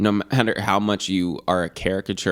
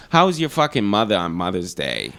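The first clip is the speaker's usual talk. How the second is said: put-on Boston accent; 3 semitones lower than usual. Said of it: "I'm terrible at the Boston accent".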